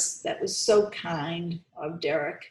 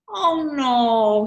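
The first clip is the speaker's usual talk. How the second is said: concerned oh no; 7 semitones higher, 8 dB louder than usual. Acted. Teacher reacts to lost lunch.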